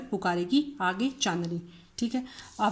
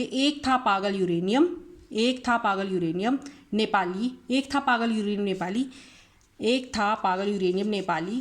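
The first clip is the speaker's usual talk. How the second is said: mnemonic recited. Shown as a demonstration. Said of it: "तो इसका याद करेंगे".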